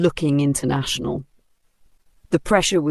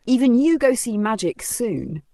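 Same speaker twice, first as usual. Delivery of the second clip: shouted reassurance; 5 semitones higher than usual. Acted. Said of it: "Kudi shouted".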